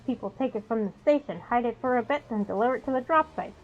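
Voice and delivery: lively, projected reading of game text; quest text read-aloud. Acted. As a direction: read the quest briefing out to viewers.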